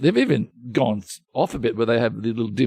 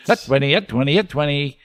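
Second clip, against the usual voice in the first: auctioneer; 2 semitones higher than usual. Retold or imitated. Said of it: "It's a bit like an auctioneer".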